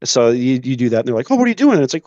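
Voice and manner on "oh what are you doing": high, lightly voiced girl asking in confusion; retelling a girl baffled at the crosswalk, high and puzzled; mock puzzled girl. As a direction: toss it up high like a confused girlfriend. Girl's puzzled question in retold scene.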